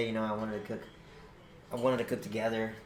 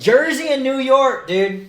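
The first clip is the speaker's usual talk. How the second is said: much higher and louder, slow, stunned; a loud, slow, disbelieving cry; exasperated outburst; 12 semitones higher, 12 dB louder, slower than usual. Real, not acted. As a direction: spell out the names in disbelief. Exasperated realization.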